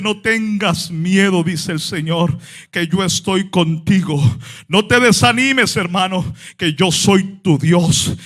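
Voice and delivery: tender reassurance. Acted. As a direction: speak the promise gently. Tender lowered scripture reading.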